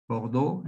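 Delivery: "Bordeaux" said the French way, bor-DOH; French pronunciation. Shown as a demonstration. Teacher giving the French name of the city, in French pronunciation. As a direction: say "Bordeaux" as a French speaker would. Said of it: "en francés".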